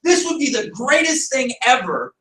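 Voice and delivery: high, eager burst of excitement; a light imitation of someone thrilled by their own invention; mock excited inventor. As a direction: gush over a brilliant idea, half-joking. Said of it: "They're like".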